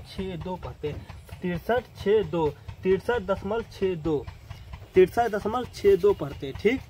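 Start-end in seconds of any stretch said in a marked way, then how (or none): 1.4-6.1 slow, digit-by-digit reading of तिरसठ दशमलव छः दो; slow demo reading. Shown as a demonstration. Teacher showing students how to read decimals, slowly. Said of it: "इसीलिए क्या पढ़ते हैं हम".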